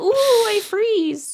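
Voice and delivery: very high, drawn-out wail; hammed-up shivering in a squeaky-high voice; mock shivering girl. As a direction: imitate a girl pretending to freeze. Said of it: "they're all shivering".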